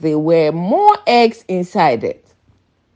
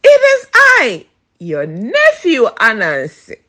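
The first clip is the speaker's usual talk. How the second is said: frantic. Acted. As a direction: blurt it out in a panic. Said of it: "Anansi replied frantically".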